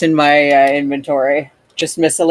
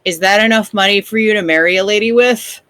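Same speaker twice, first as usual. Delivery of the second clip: higher, quick checking question; making sure; 4 semitones higher, faster than usual. Acted. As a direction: ask it to double-check he's sure. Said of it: "as though making sure that he's sure".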